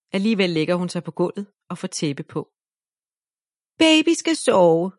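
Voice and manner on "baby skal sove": higher, slow, louder bossy call; shouting. A narrator's reading. Ida bossing Viola as baby, slow loud order. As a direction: order the baby to sleep loudly. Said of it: "råber Ida".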